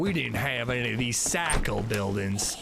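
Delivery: put-on folksy old-timer hillbilly grumble. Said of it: "the most hillbilly I can do".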